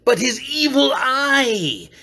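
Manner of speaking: a tormented cry of hatred; anguished cry. A narrator's reading. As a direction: wail over the hated eye. Obsessive hatred of the eye.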